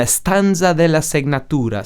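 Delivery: slow, playful Italian accent. Shown as a demonstration. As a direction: savor the words in an Italian accent. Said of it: "oportunidade de usar este sotaque inacreditável".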